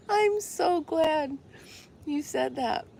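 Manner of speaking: high, very slow, laughing it out; can barely get it out for laughing; real giggling glee; laughing delight. Real, not acted. Still laughing at the joke.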